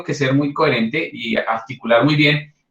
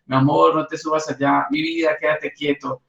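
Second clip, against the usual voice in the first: sweet pleading. Shown as a demonstration. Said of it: "Con este tono de voz no nos van a hacer caso". (tono dulce y suplicante con el niño)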